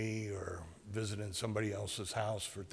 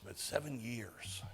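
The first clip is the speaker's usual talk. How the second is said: softly; 6 dB quieter than usual. Real, not acted. Closing the list of durations.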